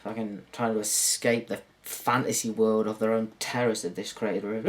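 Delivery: usual speaking voice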